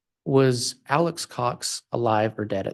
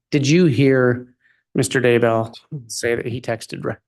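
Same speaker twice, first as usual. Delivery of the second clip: speaking up; 4 dB louder than usual. Real, not acted. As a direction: repeat it clearly and firmly into the microphone. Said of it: "my microphone wasn't up here".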